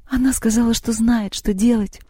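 high, tearful acted voice; acted whimpering excuse; sobbing. A narrator's reading. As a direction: plead through sobs. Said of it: "всхлипнула Лёля".

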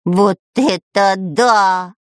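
drawn-out astonished exclamation; stunned amazement. A narrator's reading. Spy hears how huge it grows, stunned. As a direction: stretch each word in amazement. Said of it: "бухнулся на дно".

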